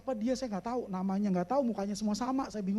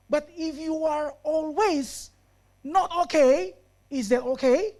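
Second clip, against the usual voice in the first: building challenge; 4 semitones higher, 7 dB louder, slower than usual. Acted.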